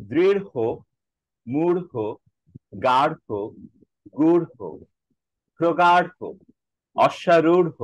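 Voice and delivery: each word with a breathy flap at the end; a crisp drill of the ঢ় words; aspirated ঢ় list. Shown as a demonstration. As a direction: model pronunciation of দৃঢ় and গাঢ়. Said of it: "কিভাবে উচ্চারণ করব?".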